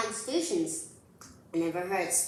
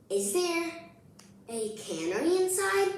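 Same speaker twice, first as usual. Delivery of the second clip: playful question; 10 semitones higher than usual. Acted. Reader voices child's silly guess.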